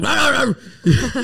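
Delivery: imitated "rah rah" growl; imitated noise. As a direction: go rah-rah in place of words. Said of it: "I was like".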